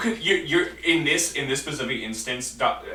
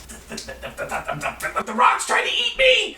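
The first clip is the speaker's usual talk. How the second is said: stammering, then a high terrified squeal; panicked gnome; 13 semitones higher than usual. Acted. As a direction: stutter in fear, then shriek. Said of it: "he says".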